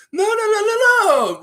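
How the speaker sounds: loud, high mock no; mock shouted refusal. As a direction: bark out the refusal like a stubborn ref.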